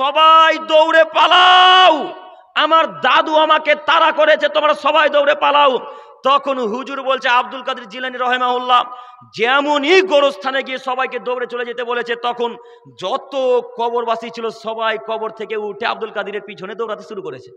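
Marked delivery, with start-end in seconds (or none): 0.0-5.8 high, slow, very loud shouting cry. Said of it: "জোর গলায় চেঁচিয়ে বলছেন".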